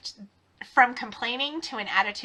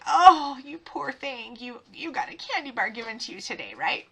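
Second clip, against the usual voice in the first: mock pity. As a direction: pretend to pity a spoiled kid. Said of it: "trying to be like".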